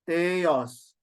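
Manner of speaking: "Theos" falling on the last syllable; grave accent down. Shown as a demonstration. Teacher demonstrating grave accent, Theos with a falling end. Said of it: "It goes down".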